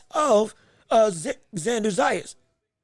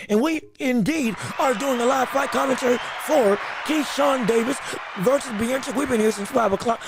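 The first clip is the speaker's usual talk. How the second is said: announcer intro. Acted. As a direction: announce it like a broadcast host. Announcer intro to live stream.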